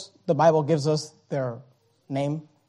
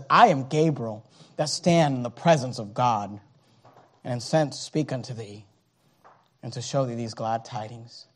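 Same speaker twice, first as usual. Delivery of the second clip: hushed angel; 10 semitones lower, 11 dB quieter than usual. Acted. Gabriel's reply, hushed.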